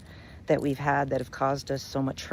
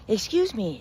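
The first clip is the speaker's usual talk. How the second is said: higher pleading call to get attention; pleading scorpion; 7 semitones higher than usual. Acted. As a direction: call out politely, a little higher. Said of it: "calls out to him".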